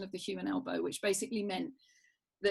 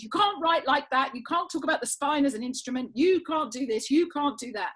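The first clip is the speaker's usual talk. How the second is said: mock shout, higher and a bit louder; retold shouting; 5 semitones higher, 4 dB louder than usual. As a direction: imitate a scientist scolding you down the phone. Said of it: "he's shouting at me".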